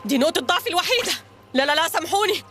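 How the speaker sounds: high, flustered repeated no's; hammed-up cartoon panic; panicking. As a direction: babble in a rising panic. Captain panics hearing about cramp.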